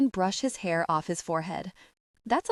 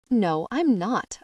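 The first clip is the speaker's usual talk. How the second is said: slow, louder firm denial; insisting; 3 semitones higher, 4 dB louder, slower than usual. Acted. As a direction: dig in and refuse, slowly. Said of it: "I insist".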